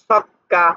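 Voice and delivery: "সক্কা" with a held double k; doubled consonant. Shown as a demonstration. Teacher giving a Bengali example, "সক্কা" with doubled k. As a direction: pause on the k inside "সক্কা". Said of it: "পরের বর্ণটা দুইবার উচ্চারণ হয়".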